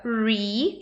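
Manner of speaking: slow "re" said as English "ree"; "re" with an English R and long ee; silent H. Shown as a demonstration. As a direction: model "re" like the start of a singer's name. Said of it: "esse H é mudo".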